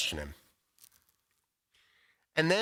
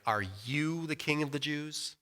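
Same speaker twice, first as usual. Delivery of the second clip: a mildly scoffing question, looking down on him; 3 dB quieter than usual. Retold or imitated. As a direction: ask it with light contempt from above. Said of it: "says something scoffing like".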